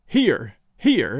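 here, here with R, pitched low; regional American pronunciation. A narrator's reading. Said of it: "in others".

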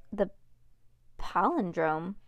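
ordinary delivery

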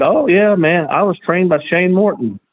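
mock boastful youngster; imitating the wannabe wrestler. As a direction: play the cocky fake trainee. Retold bragging wannabe wrestler.

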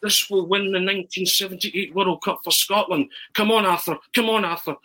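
high, excited football commentator urging himself on; Arthur Montford commentary. Acted. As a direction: commentate a dramatic penalty run-up, pitched high. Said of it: "So I start commentating on myself".

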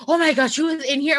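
high-pitched, mock-horrified aunt; acted high-pitched dismay; retold alarm. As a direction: re-enact an aunt's startled realization.

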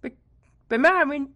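put-on high, loud whining kid; whiny child voice. Child begging again.

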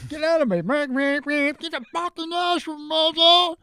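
brash street shout; loud New York yell. Retold or imitated. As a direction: shout it like a rough New Yorker.

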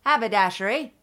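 tentative Cockney attempt with the H sounded in Haberdashery; almost Cockney. Co-host testing an accent for the shopkeeper, near-Cockney. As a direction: try a slight Cockney accent, keeping the H. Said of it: "That was almost Cockney".

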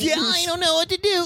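panicked. Retold or imitated. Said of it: "voice instantly goes to".

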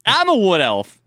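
loud high mocking echo; mocking shout. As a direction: shout it back at him, mocking. Mocking friend's elf voice.

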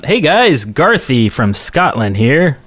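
put-on Scottish accent. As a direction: read it in a mock Scottish accent. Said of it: "This is my Scottish accent".

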